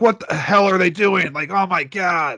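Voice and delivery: play-acted angry, worked-up, high-pitched ranting outburst. Describing how their dad reacts to illegal parking: imitating someone flipping out. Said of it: "he'll flip out and just be like".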